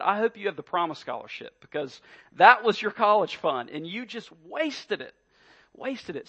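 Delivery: mock scolding father. Dad scolds imagined daughter over heirloom.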